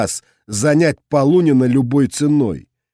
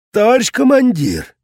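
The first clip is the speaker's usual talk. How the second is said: calling out; 10 semitones higher, 3 dB louder than usual. A narrator's reading. Soldier calling out in battle.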